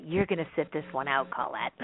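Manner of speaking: soft, low, gentle voice of her spirit guides. Retold or imitated. A soft hushed voice of spirit guides. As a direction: her guides gently easing her aside, softly. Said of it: "all my guides just kinda took me very gently and said".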